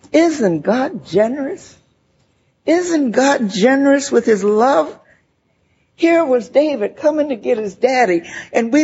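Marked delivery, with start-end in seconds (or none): 0.1-5.0 slow, wondering and sincere; slow, grateful question; awed. Real, not acted. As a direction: marvel at it, slowly. Grateful awe after hospice story.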